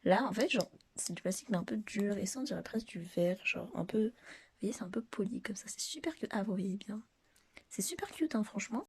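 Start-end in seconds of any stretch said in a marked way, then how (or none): 3.5-8.8 hushed close-up whisper. Real, not acted. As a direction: whisper over the product up close.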